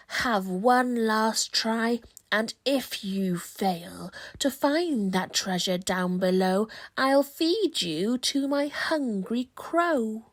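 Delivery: angry threat. Acted. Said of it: "The lizard flicks an angry tail".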